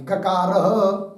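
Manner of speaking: very slow, spelled out for writing; slow classroom dictation. Shown as a demonstration. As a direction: dictate it word by word for notes. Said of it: "कौंस में लिखिए".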